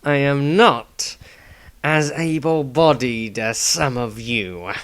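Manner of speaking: put-on slow, tired old man brushing it off; weary old man voice. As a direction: hide the pain behind a gruff old voice. Dieter answers in character voice.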